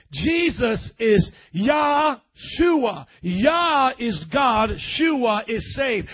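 slow, loud, each word weighted; slow emphatic. Shown as a demonstration. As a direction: spell it out slowly for the flock. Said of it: "teaching the Hebrew".

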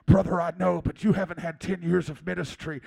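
mock-solemn pastor turning down a friend; imitated stern pastor, firm and emphatic; lightly hammed-up pastor voice; Pastor Joe. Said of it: "he would say things to me like".

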